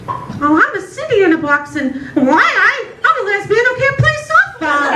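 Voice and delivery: high whiny lament, rising up; a hammed-up pitiful lament; mock self-pity voice. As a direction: whine it like a sad cartoon lesbian. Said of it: "And I'll be like".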